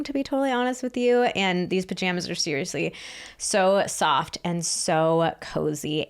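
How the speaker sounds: upbeat podcast ad read. Acted. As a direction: sell it like a sponsor spot. Reads a sponsor ad.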